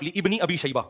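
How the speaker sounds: لابن read slowly with an extra long vowel, "li-ibni"; mispronounced reading. Retold or imitated. Speaker quoting the engineer's clip, slow misreading. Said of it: "لوگ اس کو غلط پڑھتے ہیں".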